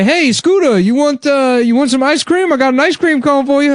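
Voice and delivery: high, mocking sing-song to a child; guard coaxing Scooter with ice cream; condescending guard voice. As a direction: talk down like to a toddler. Guard talking down to inmate.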